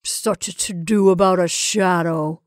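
put-on easy, careless voice; easy dismissal. Henry laughing off the shadow, easy. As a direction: make light of it. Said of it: "he said easily".

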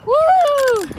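high, loud superhero-style call; loud pretend speed cry; excited play shout. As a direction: call out the power move, ending in a whoop. Playing Sonic running at speed.

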